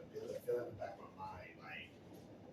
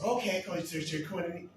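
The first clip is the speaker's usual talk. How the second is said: raised, louder mock reply; acted interruption, pitched up; cutting in; 7 semitones higher, 6 dB louder than usual. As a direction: break in high and loud.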